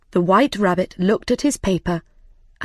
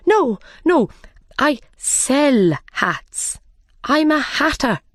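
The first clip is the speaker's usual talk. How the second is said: frightened Hatter; 6 semitones higher, slower than usual. Acted. Frightened Hatter denies to king.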